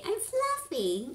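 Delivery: high, slow put-on voice of the comedian; comedian impression. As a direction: drag it out like his punchline. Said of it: "What does that Latino comedian say?".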